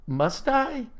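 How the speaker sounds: high, small pleading question; reluctant plea. A narrator's reading. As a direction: ask to be spared the task. Reluctant boy pleads with Nell.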